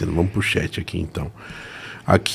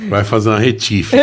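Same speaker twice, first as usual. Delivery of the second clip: laughing. Real, not acted. Joking about the mechanic.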